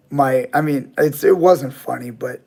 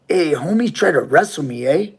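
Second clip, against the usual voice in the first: a higher, hammed-up Spanglish accent, "homie" leaned on; mock Spanglish accent; 3 semitones higher than usual. Robber telling his buddies about the fight, in a Spanglish accent. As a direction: play the robber in an over-the-top Spanglish accent. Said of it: "Spanglish accent".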